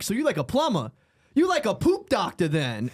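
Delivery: hint of a comic's put-on street talk; imitating the comic. Comedian asks the plumber about his job, lightly mock voiced. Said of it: "a white guy who talks like this".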